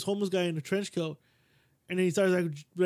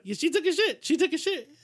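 mock deadpan; 9 semitones higher than usual. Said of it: "I look at him like".

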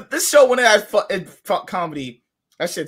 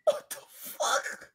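stunned whisper; 7 dB quieter, much slower than usual. Real, not acted. Stunned reaction to a video.

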